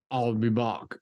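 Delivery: deadpan Austrian catchphrase; Arnold line. Pretend. Demoing how Arnold says it. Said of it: "he goes like".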